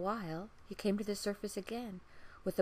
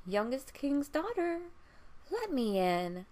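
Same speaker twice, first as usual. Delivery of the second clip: louder, higher call at the door; frog calling; 6 semitones higher, 5 dB louder than usual. Acted. Frog calling to the princess at the door, louder. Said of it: "a voice crying".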